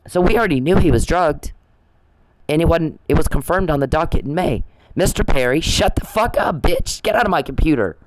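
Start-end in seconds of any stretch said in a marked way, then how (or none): 5.0-8.0 high-pitched scolding at normal volume; mock yell, telling someone off; retold yelling. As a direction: order them off in a raised pitch. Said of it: "when I start yelling at him".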